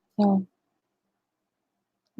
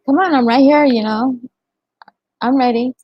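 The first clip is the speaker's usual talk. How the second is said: retold challenge; 3 semitones higher, 5 dB louder than usual. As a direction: call out loud, daring her to come at you. Challenging the sister to fight.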